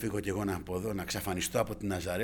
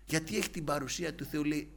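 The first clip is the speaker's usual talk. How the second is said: ordinary talk, nothing marked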